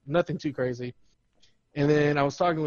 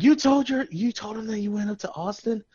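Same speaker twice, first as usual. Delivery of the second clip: imitated disbelief; 4 semitones higher than usual. Imitates girl's incredulous reaction.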